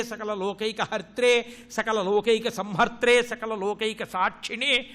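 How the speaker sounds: slow, steady devotional chant; Sanskrit hymn recitation. Acted. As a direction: recite it as a measured litany, name after name. (నెమ్మదిగా, లయబద్ధంగా స్తోత్ర పఠనం)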